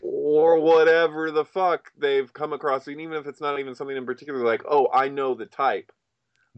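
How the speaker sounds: imitating a know-it-all brushing him off; mock dismissive. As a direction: sneer at the conspiracy theorist. Mimicking dismissive people.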